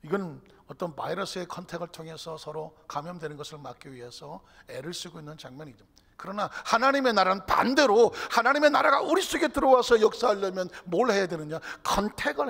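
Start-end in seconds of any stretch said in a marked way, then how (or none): 6.2-12.5 loud, high rhetorical build to a question; full-force preaching. Real, not acted. Preacher setting God's kingdom against no-contact times, full-force preaching. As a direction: proclaim it with all your force.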